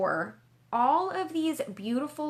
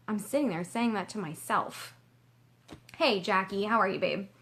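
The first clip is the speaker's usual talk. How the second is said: ordinary delivery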